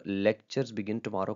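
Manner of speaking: "Lectures begin tomorrow" read slowly, even tune; slow demo read. Shown as a demonstration. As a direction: spell it out slowly for the class. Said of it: "different rise and fall के साथ पढ़ने". (धीमे से पढ़ा गया वाक्य)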